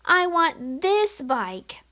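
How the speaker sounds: put-on high, slow little boy wanting; lightly voiced little boy asking. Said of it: "The little boy is pointing and saying".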